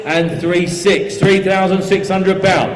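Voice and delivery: brisk steady auction bid calling; auctioneer calling. Real, not acted. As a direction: keep the bids rolling, auctioneer style.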